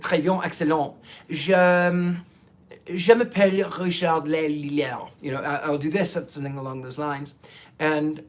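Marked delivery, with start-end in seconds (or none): 0.1-5.1 confident-sounding French accent. Shown as a demonstration. Host showing off limited French, French accent. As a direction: introduce yourself as if fluent in French. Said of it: "I sound French".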